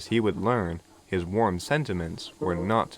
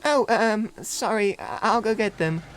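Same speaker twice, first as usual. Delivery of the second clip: high, hesitant little voice; sheepish; 12 semitones higher, slower than usual. A narrator's reading. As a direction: stammer out a shy apology. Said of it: "Philip said sheepishly".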